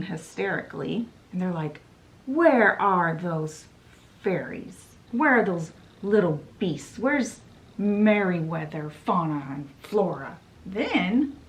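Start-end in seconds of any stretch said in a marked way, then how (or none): 2.3-10.4 furious Odd Sisters. Retold or imitated. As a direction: demand the fairies, loud and menacing. Odd Sisters storm in angry.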